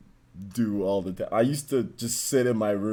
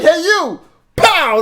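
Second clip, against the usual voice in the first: mock booming voice; 11 dB louder, slower than usual. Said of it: "it was just like".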